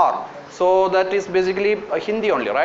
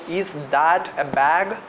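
slow dictation, repeated; slower than usual. Shown as a demonstration. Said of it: "Can someone help me to translate?".

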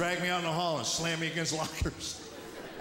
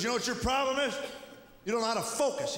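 high, pushy lecturing teacher; mock teacher; 6 semitones higher than usual. Teacher lecturing the nine-year-old, high and preachy. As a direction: lay it on like a know-it-all. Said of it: "So he goes".

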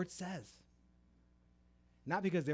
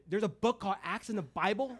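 high, loud mock disbelief; retold astonishment; 7 semitones higher, 8 dB louder than usual. New believer hears of a Bible book, retold astonished. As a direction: play up a clueless newcomer's surprise.

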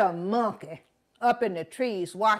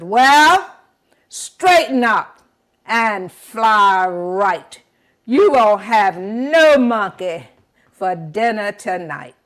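scolding; 6 dB louder than usual. Acted. Monkey scolds the buzzard.

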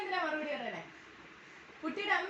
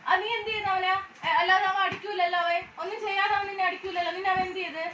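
loud, firm interrogation; stern questioning; 6 dB louder than usual. Real, not acted. Mother sternly questioning her child about a fight.

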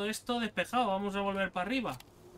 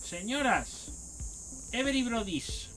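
hammed-up club DJ call; DJ announcer; 5 semitones higher, much slower than usual. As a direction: stretch it like a DJ hyping a crowd. Playful DJ announcer voice.

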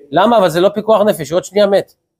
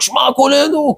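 high mock yell, no real volume; imitated crying out; 5 semitones higher than usual. Yeshiva students all start the prayer together, imitated high cry. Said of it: "כל הבחורים שם התחילו לשעוק".

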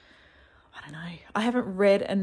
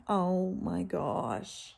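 slow awe; much slower than usual. Real, not acted. Admiring bookmarks.

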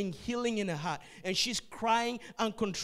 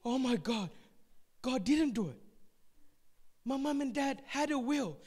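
relieved realization; 5 semitones higher, 3 dB louder than usual. Retold or imitated. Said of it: "She said".

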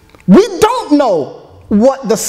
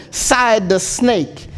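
dramatic song recitation. Acted. Preacher reciting the snake song to his congregation, dramatic storytelling. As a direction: recite the verses like a storyteller from the pulpit.

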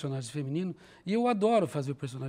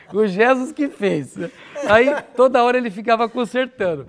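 laughing; 4 semitones higher, 11 dB louder than usual. Real, not acted. Laughs while telling about puppet.

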